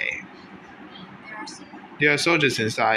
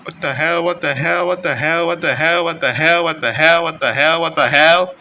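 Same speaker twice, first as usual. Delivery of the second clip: incredulous; 3 semitones higher, 4 dB louder than usual. Real, not acted. Repeated disbelief, growing louder.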